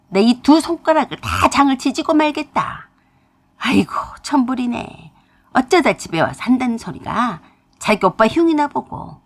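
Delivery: put-on old mother raging at her ungrateful daughter; mother yelling at daughter. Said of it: "소리를 고래고래 지르셨어요". (딸을 꾸짖으며 고래고래 소리치는 엄마)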